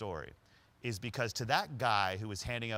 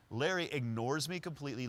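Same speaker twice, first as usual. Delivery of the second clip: usual speaking voice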